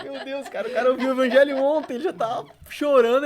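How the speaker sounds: laughing in disbelief. Real, not acted. Laughing while retelling friend's story.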